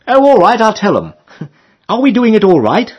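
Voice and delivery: Emily calling. A narrator's reading. Emily asking the rower what he wants, high girlish call. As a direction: ask brightly like a young girl.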